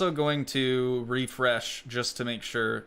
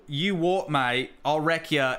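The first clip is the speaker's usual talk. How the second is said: mock British tough-guy threat; broad, hammed-up British accent. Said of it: "do your best British accent".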